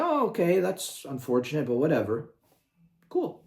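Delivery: high, breezy mock shrug, it doesn't matter; shrugging reply. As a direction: toss it off lightly, like a fan who doesn't care. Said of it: "It would be like".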